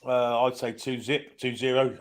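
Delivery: a light put-on American twang on the score; playing an American pundit, lightly; mock American accent. Podcast pundit giving his score in a mild American accent. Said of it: "The accent or the shit?".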